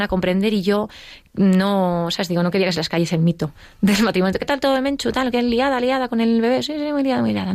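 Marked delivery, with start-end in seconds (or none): 4.4-6.6 high, chatty friend voice; bright, light small talk; cheery friends. Retold or imitated. Her friends ask about the baby. 6.6-7.5 high, breezy cover-up answer; faked busy cheer. She covers up for her friends.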